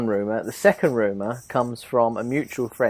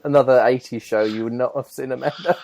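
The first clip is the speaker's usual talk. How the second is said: put-on Welsh accent. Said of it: "the best Welsh accent I've ever heard".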